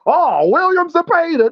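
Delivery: high-pitched mock gushing, drawn out; mock fan. Mocking a bandwagon fan who picked Lamont Roach, high mock gushing. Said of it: "now you wanna act like".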